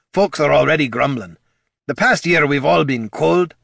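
gruff dwarf voice. Acted. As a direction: warn like a worried old comrade. Gorm explains the danger.

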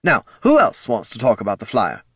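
overeager praise, pitched high; high, chirpy marketing exec. Acted. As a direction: gush like a cheerful salesman. Marketing head.

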